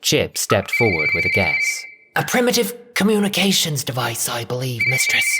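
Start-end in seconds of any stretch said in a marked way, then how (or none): 2.1-5.3 a hint of a helpful manservant; lightly voiced servant. A narrator's reading. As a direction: offer the guess deferentially. Servant Chip answers mistress.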